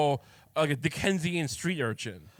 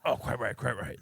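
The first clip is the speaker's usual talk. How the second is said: put-on posh English accent; 5 semitones lower than usual. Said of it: "this is a very proper accent".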